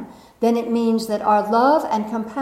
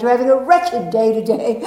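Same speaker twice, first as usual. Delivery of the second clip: put-on mother's English accent, louder; 6 dB louder than usual. Daughter imitating mother's wretched day, English accent. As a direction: mimic mother's English accent, amused and loud. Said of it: "she'd say in an English accent".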